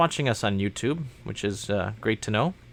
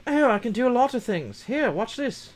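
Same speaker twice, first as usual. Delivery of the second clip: toy robot voice; 11 semitones higher than usual. Pretend. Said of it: "Robot, what else can you do?".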